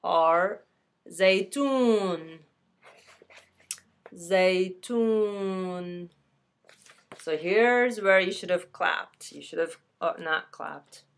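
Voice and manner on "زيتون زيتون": زيتون said slowly, long oo drawn out; slow Arabic word. Shown as a demonstration. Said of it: "the olives are".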